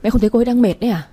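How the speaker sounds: husband pushes back at his mother, mildly irritated. Acted. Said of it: "giọng anh hơi khó chịu".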